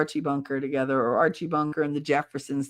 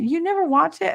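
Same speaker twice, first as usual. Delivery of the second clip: rising, higher and louder, stress on never; shocked you never watched it; surprised disbelief; 11 semitones higher, 4 dB louder than usual. Real, not acted. Chatting with viewers, surprised they never watched it. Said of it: "I never watched it".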